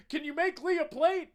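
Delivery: high, strained call over a noisy room; imitated husband hollering; yelling across a room. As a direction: call out to your wife over the crowd. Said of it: "yelling across the room to his wife".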